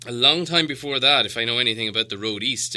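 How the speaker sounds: quick, dry wizard aside; interrupting wizard. Acted. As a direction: cut in knowingly. Gandalf interrupts Thorin.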